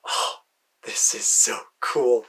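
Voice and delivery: slow, hushed wonder; awed whisper. Retold or imitated. Stepping into the broom store, a slow awed whisper. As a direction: savour it under your breath.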